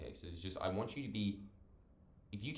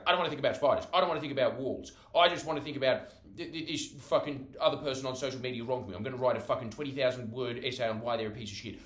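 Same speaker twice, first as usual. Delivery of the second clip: mock-agitated rant, louder and higher; 4 semitones higher, 5 dB louder than usual. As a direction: rattle off obsessive grievances. Acts own agitated brain, mock rant.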